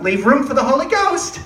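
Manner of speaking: a mimicked chaperone scolding; mock teacher's aide. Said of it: "she's like".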